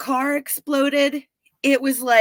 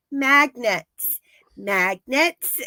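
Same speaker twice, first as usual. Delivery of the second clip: pressing the word, mildly insistent; lightly voiced urging; much slower than usual. Joyce urging the Russian, mildly insistent. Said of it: "she's like".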